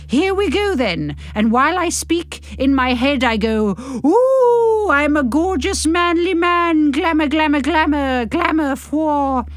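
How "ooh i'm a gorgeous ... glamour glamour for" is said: macho inner voice. Acted. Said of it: "The mind shouting".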